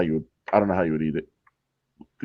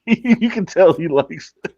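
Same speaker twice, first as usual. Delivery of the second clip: sarcastic; 6 semitones higher, 3 dB louder, slower than usual. Real, not acted. Mocking the eater on video.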